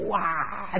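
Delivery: drawn-out mock wail, held back in volume; soft pretend bawling; imitated crying. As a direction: mimic a toddler's wail softly. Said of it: "就在那儿哭".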